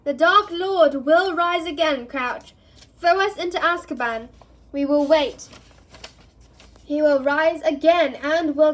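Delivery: loud, high, triumphant defiance; defiant fanatic cry. Acted. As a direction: proclaim your loyalty to the Dark Lord. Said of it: "and called".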